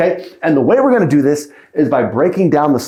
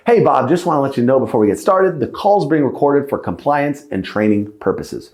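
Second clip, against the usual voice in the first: 1 nonchalant. Shown as a demonstration.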